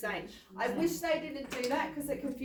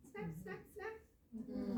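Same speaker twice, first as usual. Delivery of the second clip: snapping teeth; 6 semitones higher, 13 dB quieter, much slower than usual. Acted. Imitating crocodile jaws snapping.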